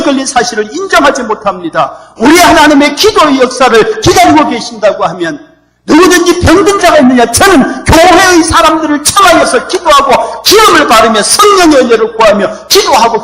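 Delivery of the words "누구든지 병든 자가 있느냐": higher, ringing preacher's question; preaching call. Real, not acted. Preacher calling out to congregation.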